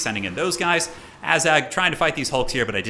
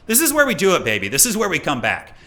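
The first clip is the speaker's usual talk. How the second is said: high, loud hype call; hyped comeback; 4 semitones higher, 3 dB louder than usual. Real, not acted. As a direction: pump it up for the comeback.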